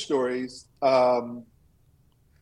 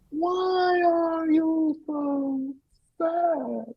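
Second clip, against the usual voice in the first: much higher, very slow angel voice; much slower than usual. Acted. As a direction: stretch it out like a gentle otherworldly angel. Angel asks the faker.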